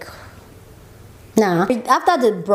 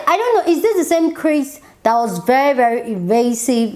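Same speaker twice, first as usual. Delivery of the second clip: incredulous; 3 semitones higher than usual. Real, not acted. Exasperated rant at Chris.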